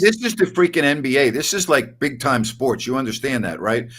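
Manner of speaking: hammed-up indignant rant; mock outrage. Mock indignant lecture to caller.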